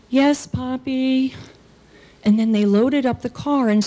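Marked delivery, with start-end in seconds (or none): 0.1-1.3 slow, higher dutiful reply; mildly singsong child answering father; obedient little girl. Acted.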